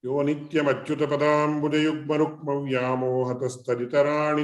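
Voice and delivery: fast Sanskrit verse recitation; rapid recitation. Acted. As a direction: rattle off the prayer verses. Recites invocation verses quickly.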